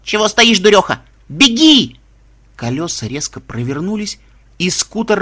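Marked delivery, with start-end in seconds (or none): 0.0-2.0 shouting loud and high. Acted. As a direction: yell urgently at her to run. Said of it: "крикнула".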